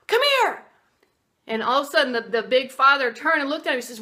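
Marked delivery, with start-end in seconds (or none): 0.1-0.6 high, loud call for him to come over; loud command. Retold or imitated. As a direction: order the big man over with a shout. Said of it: "yelled at the big man".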